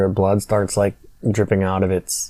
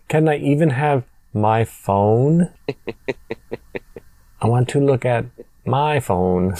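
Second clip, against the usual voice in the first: slow, stilted line reading with long pauses; mock bad acting, words laboriously spaced out; bad actress; slower than usual. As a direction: lightly imitate a terrible actress delivering her lines. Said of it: "the worst actress in the movie".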